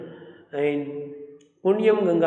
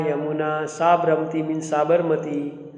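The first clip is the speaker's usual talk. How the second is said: usual speaking voice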